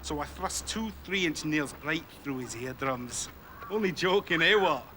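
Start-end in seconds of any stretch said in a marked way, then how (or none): 0.0-3.3 slow menace. Acted. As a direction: savour every word of the threat. Gangster describes torture.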